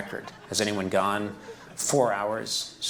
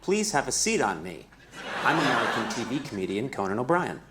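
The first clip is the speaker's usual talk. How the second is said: talking toilet; 2 semitones higher than usual. Pretend. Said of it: "I could be the voice of a new toilet".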